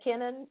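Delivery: Kenan as KIN-un, rising like a question; questioning pronunciation. Real, not acted. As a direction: check the name Kenan, weak second syllable. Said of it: "how do you pronounce his son's name".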